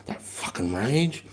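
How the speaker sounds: controlled rage. Shown as a demonstration. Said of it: "But you're maintaining that rage".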